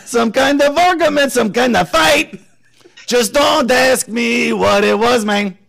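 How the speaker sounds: half-sing it in a Latino drawl; Latino accent. Shown as a demonstration. A song sung in a Latino accent, slow. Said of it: "I did it in a Latino".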